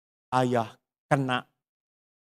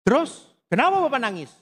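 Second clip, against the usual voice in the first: surprised question; 12 semitones higher, 4 dB louder, faster than usual. Retold or imitated. Anak bertanya pada ayah.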